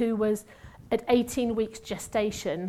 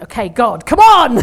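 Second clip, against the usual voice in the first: desperate plea; 16 dB louder than usual. Retold or imitated. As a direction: shout it up to heaven, half laughing. Pleading prayer over collapsed woman.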